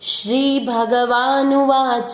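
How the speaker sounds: slow, full-voiced Sanskrit chanting; full shloka recitation. Shown as a demonstration. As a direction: intone the whole verse reverently. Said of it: "पूरे श्लोक का उच्चारण एक साथ".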